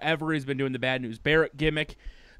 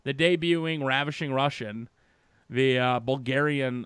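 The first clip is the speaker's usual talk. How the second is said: mock alarmed fans. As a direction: gasp it out like a shocked fan. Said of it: "people are like".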